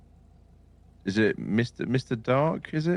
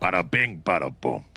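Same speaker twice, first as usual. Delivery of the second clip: Italian bit. Pretend. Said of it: "you and this Italian bit".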